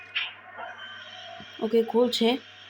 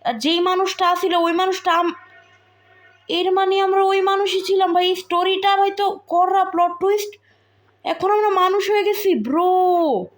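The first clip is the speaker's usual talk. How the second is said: excited rant; 4 semitones higher than usual. Real, not acted. Plot twist rant, high and loud.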